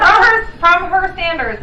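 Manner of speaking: high, loud laughing words. Real, not acted. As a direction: laugh through it. Laughing while explaining.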